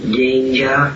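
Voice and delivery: danger set apart and stressed hard. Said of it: "and I stress the word".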